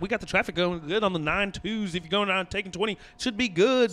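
lightly put-on morning DJ patter; radio DJ voice. Shown as a demonstration. Comic demonstrating his traffic report, radio DJ voice. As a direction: read traffic like a radio DJ, pitch lifting. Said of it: "I wanna go ahead and use my radio D J voice".

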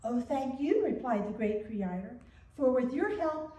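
gentle storyteller reading to a congregation; story reading. Acted. Pastor reads a short tale to the congregation, storytelling. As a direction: read it like a children's tale.

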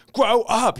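high-pitched, exasperated imitation; exasperated mock scolding. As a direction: mimic someone fed up, pitch jumping up. Acted quote of an exasperated scolding.

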